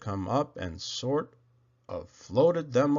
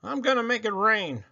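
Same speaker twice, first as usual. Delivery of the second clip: big high shouted command; loud divine order; booming command; 9 semitones higher, 6 dB louder than usual. Acted. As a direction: bellow it down from the heavens. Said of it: "He says".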